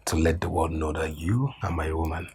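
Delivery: intimate whisper to his lover. Acted. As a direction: breathe it close and secret. Lover whispering secret to mistress.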